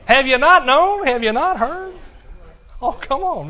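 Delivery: high, loud rhetorical challenge; preaching loud. Real, not acted. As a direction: demand it of the crowd.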